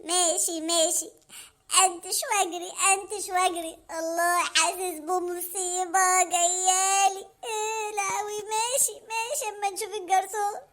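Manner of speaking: low, slow, whimpering dread; dreading Hamada. Acted. Hamada sure a beating awaits, low and slow. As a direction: sense the disaster coming.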